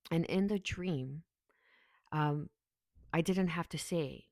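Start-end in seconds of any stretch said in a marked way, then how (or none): 0.1-2.5 slow whispered aside, no voice; secretive whisper picking up the story. Real, not acted. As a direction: drop to a slow hushed whisper. Hushed aside while telling dream.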